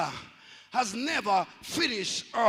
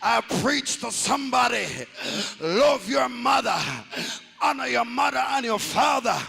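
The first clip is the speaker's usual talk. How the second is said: full-force preaching. Acted. Preacher calling out to the church, full-force sermon shout. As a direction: drive it home to the congregation.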